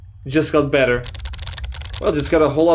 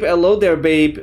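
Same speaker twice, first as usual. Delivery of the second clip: cheeky hello; 2 semitones higher, 4 dB louder than usual. Pretend. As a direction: toss it out like a cheeky tease. Chat greeting options read aloud.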